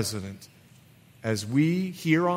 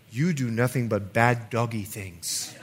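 put-on Bahamian accent; 4 semitones lower, 4 dB quieter than usual. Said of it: "With a little Bahamian accent".

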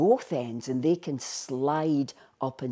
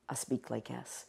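Buckie Scots; 11 dB quieter than usual. Shown as a demonstration. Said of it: "when I go back to Buckie".

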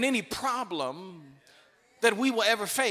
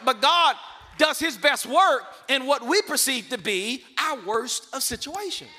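much louder, punching every word; shouted repetition; 3 semitones higher, 6 dB louder than usual. Shown as a demonstration. Preacher repeating his principle to the church, now shouted. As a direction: shout it back at the congregation. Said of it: "That's the word right there".

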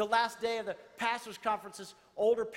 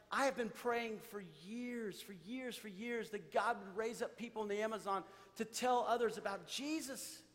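softer, as if moved to tears; retold tearful testimony; 6 dB quieter than usual. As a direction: retell it with hushed, mild emotion. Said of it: "And he's crying".

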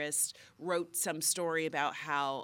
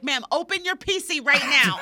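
mock scam caller; 7 semitones higher, 11 dB louder than usual. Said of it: "And he was like".

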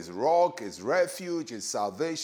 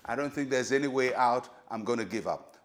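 mildly resigned, lowered voice; imitated giving up; 3 semitones lower than usual. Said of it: "fold your arms and say".

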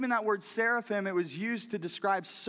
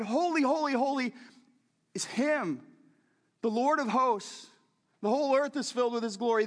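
seraphim proclaiming; 4 semitones higher than usual. Acted. Seraphim crying out, "so loud.

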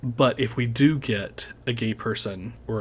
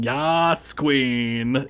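mock shout; 2 semitones higher, 4 dB louder than usual. Describing what the candidate is not out there shouting, mock shout. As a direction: imitate a flamboyant cheer, only mildly raised. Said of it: "He's not out there shouting".

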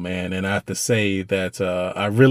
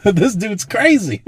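laughing; 11 semitones higher, 4 dB louder than usual. Real, not acted. Laughing while telling scene.

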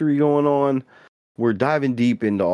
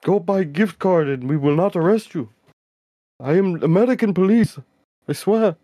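scammer police voice; 7 semitones higher than usual. Retold or imitated. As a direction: play a scammer posing as police. Scammer impersonating police on call.

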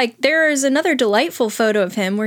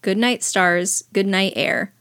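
put-on reading to children. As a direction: read it like a bedtime book. Reads Goodnight Moon aloud.

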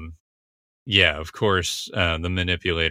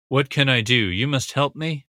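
higher, imitating a frightened plea; panicked plea; 5 semitones higher than usual. Recapping Josie begging Andrew for help, a mock frightened plea. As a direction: voice her panic, pitched up and pleading. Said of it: "she's freaking out".

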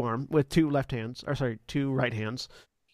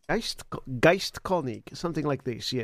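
tentative German accent; German accent attempt. Shown as a demonstration. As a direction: feel out a German accent, stretching the name. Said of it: "I need to figure out his accent again".

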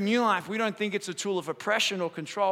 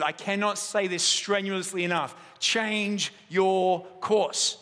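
a hint of a commanding captain, slow on the last words; lightly voiced navy captain insisting; stern captain's order; slower than usual. US captain repeating his order over the radio, mildly stern. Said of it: "the U S captain jumped on the radio again and said".

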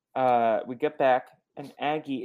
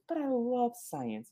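whiny protest; 12 semitones higher, 5 dB quieter, slower than usual. Retold or imitated. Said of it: "then she's like".

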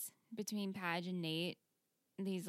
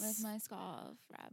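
Chuck Bass; 6 dB quieter, slower than usual. Retold or imitated. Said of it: "And then Chuck just goes".

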